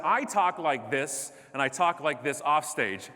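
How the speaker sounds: emphatic, deliberate stage delivery; full-on speaking style. Real, not acted. Speaker showing audience he talks this way everywhere, full-on and emphatic. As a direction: punch out each phrase with energy. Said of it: "it's exhausting to hang out with me".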